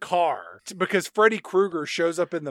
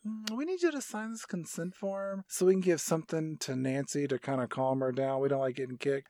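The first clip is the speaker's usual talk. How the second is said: mock nurse voice; 7 dB quieter than usual. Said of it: "the nurse is like".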